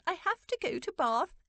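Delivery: high, fretful wail; distressed aunt wailing in frustration. A narrator's reading. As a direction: build to a high-pitched wail of protest. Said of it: "Aunt Dotty wailed".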